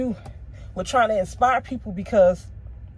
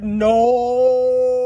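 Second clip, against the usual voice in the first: dismayed cry; 3 semitones higher, 6 dB louder than usual. Retold or imitated. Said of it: "I was like".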